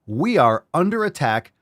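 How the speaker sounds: high, loud, hammed-up panic; mock alarm. Host joking to viewers that Canadians are attacking, mock panic. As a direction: play it like a fake emergency broadcast.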